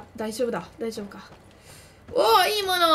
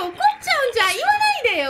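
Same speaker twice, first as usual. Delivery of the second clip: panicked pleading; 10 semitones higher, 5 dB louder, much faster than usual. Real, not acted. Panicked pleading, high loud.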